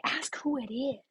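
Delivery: hushed, whispered prompt; retold sideline whisper; stage whisper. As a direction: whisper a tip to the person on the phone. Bryce prompting beside the phone.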